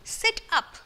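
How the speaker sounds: mock grown-up command; bossy grown-up. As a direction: snap it like a strict elder. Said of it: "They say".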